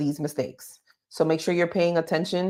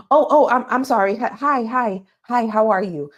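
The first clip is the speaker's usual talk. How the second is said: an interviewer realising a candidate is calling, gushing hellos; suddenly friendly; 4 semitones higher than usual. Retold or imitated. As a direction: switch to eager, bright welcome. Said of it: "Immediately, there's a change".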